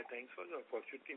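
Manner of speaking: very soft and distant; speaking too quietly; barely audible. Real, not acted. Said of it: "your voice is very low".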